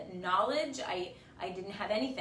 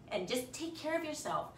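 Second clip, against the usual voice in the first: choked up; 5 semitones higher than usual. Real, not acted. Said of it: "I must be getting my period".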